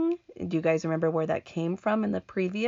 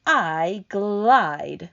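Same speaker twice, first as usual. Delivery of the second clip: primly; 2 semitones higher, 6 dB louder than usual. Acted. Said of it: "said the earthworm primly".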